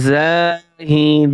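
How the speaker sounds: slow drawn-out reading. Shown as a demonstration. Teacher to students, showing how to blend the syllables, slow chanted reading. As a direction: stretch every syllable, very slow and sung out. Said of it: "বানান করে পড়বেন".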